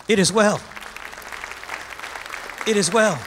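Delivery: calm affirmation. Acted. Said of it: "lift your hands and say".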